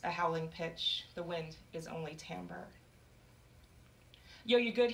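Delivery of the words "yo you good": calling out. Acted. Counselor calls to the girl.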